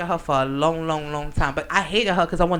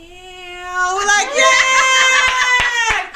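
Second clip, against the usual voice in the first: big high excited shout; whooping yell of excitement; cheering yell; 13 semitones higher, 8 dB louder, much slower than usual. Real, not acted. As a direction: cheer her on at full volume. Friends cheering her on.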